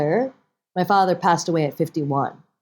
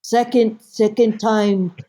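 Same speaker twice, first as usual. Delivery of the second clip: higher, louder mother, word by word; mother's voice; 4 semitones higher, 3 dB louder, slower than usual. Retold or imitated. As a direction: list failures deliberately as mother. Mother lists her failed tests.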